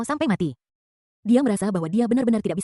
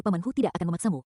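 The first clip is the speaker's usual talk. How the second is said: sighing; 4 semitones lower, 5 dB quieter than usual. Acted. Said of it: "Hu yang menghela napas dan berkata".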